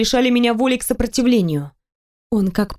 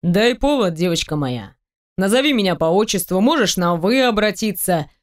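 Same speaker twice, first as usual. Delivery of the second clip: lightly voiced man. Teasing the heroine about undressing, lightly lowered male voice. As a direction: tease her, playful and sure. Male character seducing her.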